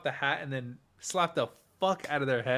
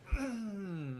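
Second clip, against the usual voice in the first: soft, high falling throat noise; imitated wind-up noise; 8 semitones higher, 12 dB quieter than usual. Showing how I cocked all the way back, imitated noise. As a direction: act out the big swing with a small noise. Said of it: "I went".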